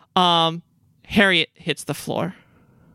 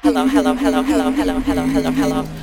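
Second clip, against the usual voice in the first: low, insistent repeated hello; creature's fever pitch; 11 semitones lower, 3 dB louder, much faster than usual. Acted. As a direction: chant it low and relentless, like a creature working itself up. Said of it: "that fever pitch again".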